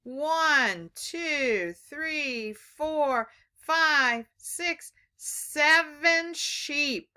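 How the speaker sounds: put-on teaching a child to count. Shown as a demonstration. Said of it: "Let's see how many sheep".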